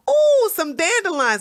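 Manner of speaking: high ooh, then falling away; mock delight. Imitating centrists who spot dandelions, mock delight. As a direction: act out a gleeful little find. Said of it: "they'll go".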